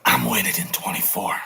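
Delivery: doddering politician bragging, lightly done; a hint of an old president; mock Biden impression.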